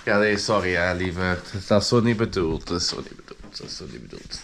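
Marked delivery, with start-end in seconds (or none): 2.7-3.6 whispered apology. Shown as a demonstration. To his girlfriend, a sheepish whispered apology. Repeats apology ever softer. 3.6-4.4 much softer, much lower, fading away; barely audible. Shown as a demonstration. To his girlfriend, a fading near-silent apology.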